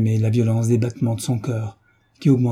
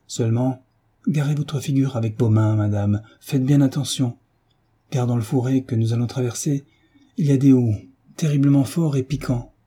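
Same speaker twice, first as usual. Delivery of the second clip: urgent farmer guide; 2 semitones higher than usual. Acted. Farmer warning the young mother in the marsh, urgent. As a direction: hurry her along as a worried guide.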